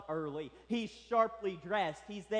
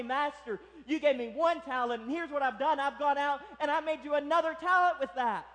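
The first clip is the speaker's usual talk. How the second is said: mildly excited report, building higher and louder; eager servant; 4 semitones higher, 4 dB louder than usual. Acted. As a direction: proudly present what you've earned to the master. Acts the expected proud servant report.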